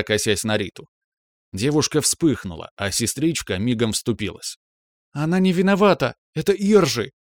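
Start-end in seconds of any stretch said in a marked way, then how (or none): 5.1-7.1 put-on high, quick girl's voice rushing to defend; little sister's defense. A narrator's reading. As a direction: blurt it out to protect her friend.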